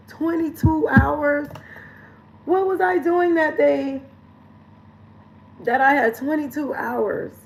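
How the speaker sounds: can't believe the number; disbelief. Real, not acted. Shocked reading her screen time.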